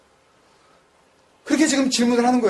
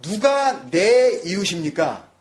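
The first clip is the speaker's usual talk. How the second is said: "누가 내 이웃입니까?" very slowly, falling on "내"; slow quoted question; much slower than usual. Shown as a demonstration. Preacher slowly weighing the lawyer's question. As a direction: drag it out, leaning on "내". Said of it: "라고 한다면".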